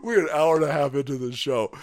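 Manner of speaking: ordinary talk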